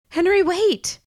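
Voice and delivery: high urgent shout; desperate shout as he leaves; calling out. A narrator's reading. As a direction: call after him before he's gone. Calling after departing Henry.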